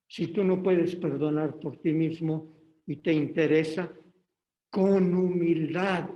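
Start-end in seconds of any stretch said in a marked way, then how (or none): 4.7-6.1 "con humildad" slowed right down, louder, each syllable leaned on; stress on humildad. Real, not acted. Preacher urging the congregation, stressing "humildad" slowly. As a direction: hit "humildad" slow and weighty. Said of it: "y remarco la palabra".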